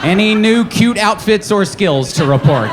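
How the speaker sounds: slow, overpolite eager request; overly polite. Retold or imitated. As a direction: ask sweetly and too politely. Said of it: "like a very polite pedophile".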